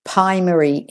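"primary" with the r dropped after the p; R left out. Shown as a demonstration. Teacher shows learners the mistake, r left out of "primary". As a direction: say "primary" without its first r, as "pie-mary". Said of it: "don't leave the er out".

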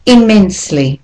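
IMMENSELY with every syllable stressed pretty evenly; careful teacher's model of "Immensely". Shown as a demonstration. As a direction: say "Immensely" clearly, syllables weighted alike. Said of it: "all the syllables are actually stressed".

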